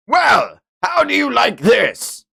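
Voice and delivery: high, loud mocking taunt; taunting villain. Streamer voicing the villain mocking Julian, loud taunt. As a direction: sneer it out as you strike.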